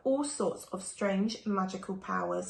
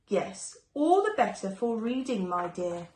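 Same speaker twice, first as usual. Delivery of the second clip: a touch of a sneer, breathy yes; lightly voiced sly wolf sneering; mild sneer. Wolf in disguise answering Red, with a mild sneer. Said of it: "And then Wolf with a sneer said".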